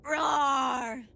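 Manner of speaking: shouted giant monster roar. Pretend. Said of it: "Like a giant monster".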